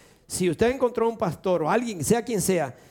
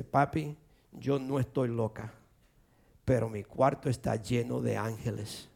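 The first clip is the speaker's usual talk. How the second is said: retold hushed confiding; 8 semitones lower, 7 dB quieter than usual. Daughter's text to father, voiced softly.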